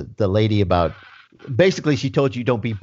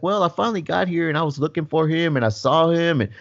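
higher, rambling retold son; lightly voiced son dragging out his explanation; stalling son; 4 semitones higher than usual. Son stalling while telling dad by phone, rambling. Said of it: "He's like".

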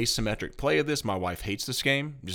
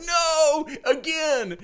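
laughing mock despair; 5 dB louder, much slower than usual. Mock despair at losing tiebreaker.

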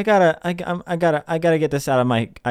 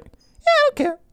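tiny, very high put-on voice; airy high-pitched caricature of not caring; mock indifference. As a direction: squeak it as a mocking imitation. Mimics people who don't care.

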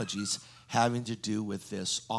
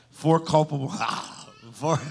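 "Four culpable" louder and higher, punched; emphatic; 5 semitones higher, 7 dB louder than usual. Real, not acted. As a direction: hammer "Four culpable" to wake them up. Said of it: "Are you with me?".

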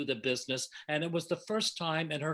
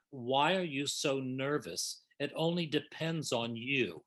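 slower and softer, a calm comfort; gentle reassurance; 3 semitones lower, 3 dB quieter than usual. Retold or imitated. To a nervous Betty before the run-through, soft reassurance. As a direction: soothe her nerves, unhurried and low-key. Calming a shaking star backstage.

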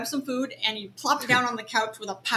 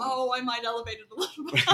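laughing mock repetition of his words; teasing echo; faster than usual. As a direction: throw the words back with a laugh. She echoes his words, laughing.

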